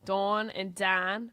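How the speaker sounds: "Dawn" and "Don" stretched slowly, with distinct vowels; slow New Orleans "Dawn" against "Don"; mom's pronunciation. Retold or imitated. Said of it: "That's how my mom starts talking".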